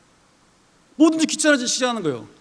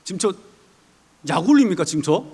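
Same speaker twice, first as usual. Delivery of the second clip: indignant Moses; 5 semitones lower than usual. Pretend. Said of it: "제가 모세라면 전 이렇게 했을 것 같아요".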